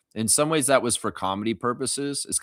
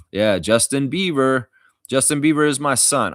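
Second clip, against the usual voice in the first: proud booming brag, louder and higher; proud loud boast; 3 semitones higher, 6 dB louder than usual. Pretend. Streamer bragging to chat about his son, loud and proud.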